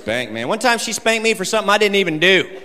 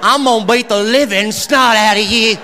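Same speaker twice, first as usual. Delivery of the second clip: mock angry mom; 5 semitones higher than usual. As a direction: threaten like an over-detailed mom, lightly hammed. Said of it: "My mom would tell me".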